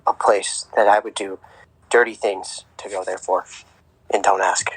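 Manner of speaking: hushed, measured golf-broadcast welcome; golf announcer voice. Pretend. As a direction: greet viewers like a solemn tournament host. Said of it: "use your golf announcer voice".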